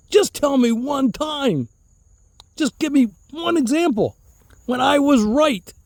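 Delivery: high, slow mock pleading; pleading challenge. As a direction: demand proof from a stubborn uncle, drawing it out. Acting his challenge to his uncle.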